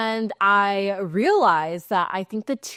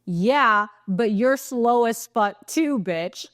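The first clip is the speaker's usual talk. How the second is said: mock angry yell, slightly raised and drawn out; retold scream; 3 semitones higher, much slower than usual. Angry man answering her across the lanes, mild mock scream. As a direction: imitate a road-rager yelling, held back. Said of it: "he starts screaming".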